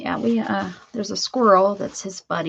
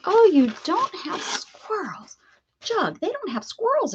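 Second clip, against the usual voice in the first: whisper to dog; 12 semitones higher than usual. Acted.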